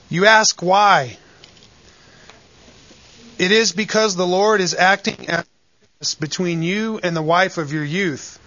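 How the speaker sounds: measured, solemn Bible reading; scripture reading. Acted. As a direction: read the verses with weight and care. Reads scripture passage aloud.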